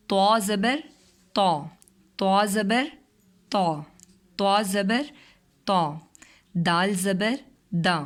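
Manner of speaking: slow, sung-out letter drill with rising زبر; phonics drill. Shown as a demonstration. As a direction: spell each letter out for a child, then say the sound. Teacher drills letter sounds. (آہستہ آہستہ حروف کی مشق)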